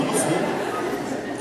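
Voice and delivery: usual speaking voice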